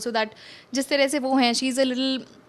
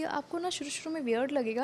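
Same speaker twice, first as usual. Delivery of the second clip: softly, imitating an unheard remark; re-enacted soft speech; 3 semitones higher, 8 dB quieter than usual. Actress re-enacting her first words to a co-star, softly. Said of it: "it was so ऐसे धीरे से".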